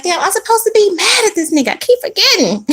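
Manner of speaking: high, fast, laughing through it; laughing at yourself. Retold or imitated. You forgetting you're mad at him, laughing. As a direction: giggle as you catch yourself slipping.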